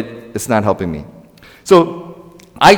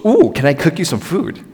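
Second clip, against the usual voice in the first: higher, suddenly eager mom voice; perked-up mom; 4 semitones higher than usual. Retold or imitated. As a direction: imitate a mom perking up to offer food. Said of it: "her personality changes".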